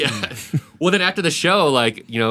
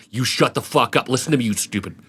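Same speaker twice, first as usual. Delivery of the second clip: paid comic's tirade; 2 semitones higher than usual. Shown as a demonstration. Paid comic turns on audience, mock angry tirade. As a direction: berate the crowd, climbing in pitch. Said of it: "here's my impression of a comic who has been paid".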